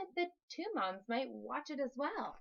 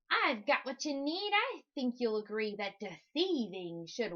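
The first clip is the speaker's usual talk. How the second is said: smooth, shady hustler voice; slick con man. Acted. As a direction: sell the lie like a swindler. Con man pitches his trick.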